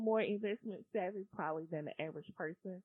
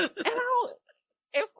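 stifled giggles; 14 semitones higher, 7 dB louder than usual. Real, not acted. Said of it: "I'm trying not to laugh".

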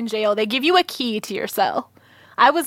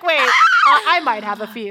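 laughing imitation; 2 semitones higher, 3 dB louder than usual. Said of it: "You're like".

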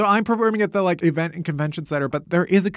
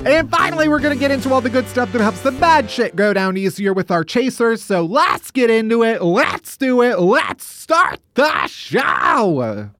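put-on Midwestern accent, stretched out slower toward the end; hammed-up Midwestern accent; 2 semitones higher than usual. Host practising for his Midwest trip, hammed-up Midwestern accent. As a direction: build to a long, drawn-out Midwestern send-off. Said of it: "I have to get my accent ready".

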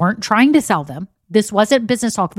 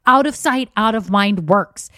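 triumphant; 3 semitones higher, slower than usual. Retold or imitated. Gloating to daughter over found muffins.

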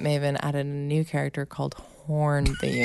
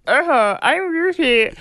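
high, stretched E sounds; imitating son's long-E narwhal voice; narwhal with long E's; 11 semitones higher, 3 dB louder, slower than usual. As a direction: stretch the E's in a silly kid voice. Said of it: "he does it with more long E's".

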